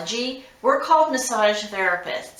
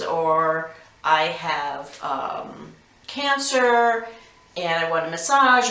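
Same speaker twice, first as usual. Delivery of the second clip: professional caller. Shown as a demonstration. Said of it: "be professional and say".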